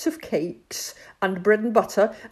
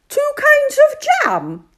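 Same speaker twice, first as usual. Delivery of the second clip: much higher, slow tiny squeak; squeaky bat; 9 dB louder than usual. Acted. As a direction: squeak it like an excited little bat. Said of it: "squeaked Bat".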